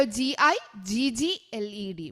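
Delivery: very slow letter-by-letter spelling, each letter apart; spelled out slowly. Shown as a demonstration. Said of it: "spelling out giggled". (വളരെ പതുക്കെ അക്ഷരം അക്ഷരമായി)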